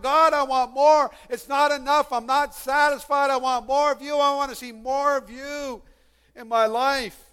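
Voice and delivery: crying out to God. Acted. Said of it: "we would cry out to God".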